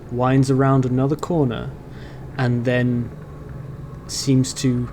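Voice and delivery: measured game master narration with pauses; scene setting. Acted. Game master describing the tunnel to a player, measured scene setting. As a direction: set the scene, pausing between phrases.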